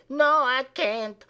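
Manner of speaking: slow, high whiny "No, I can't."; mock whine.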